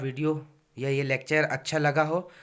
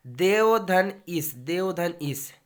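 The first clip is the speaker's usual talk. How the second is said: slow, deliberate देव धन इस; slow dictation; much slower than usual. Shown as a demonstration. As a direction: say देव धन इस slowly, word by word. Teacher dictates example slowly.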